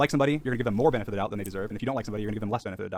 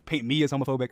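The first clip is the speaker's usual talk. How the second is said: sarcastic; 2 semitones higher, 3 dB louder than usual. Retold or imitated. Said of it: "sarcastically being like".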